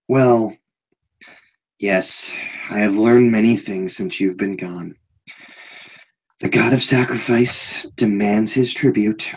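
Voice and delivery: calm and oddly content; strange serene guard. Acted. GM voices Anton.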